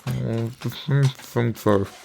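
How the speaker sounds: talking through a mouthful of brownie; words round a bite of food; mouth full. Real, not acted. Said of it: "Don't talk with your mouth full".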